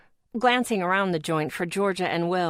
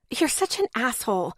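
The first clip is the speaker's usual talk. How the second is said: wheezy; 4 semitones higher than usual. Acted. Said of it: "undertone of a wheeze".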